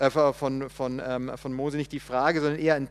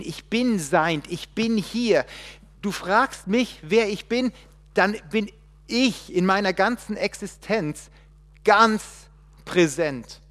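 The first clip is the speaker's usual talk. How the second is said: proclaiming God; 5 semitones higher, 5 dB louder than usual. Acted. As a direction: declare presence with full weight.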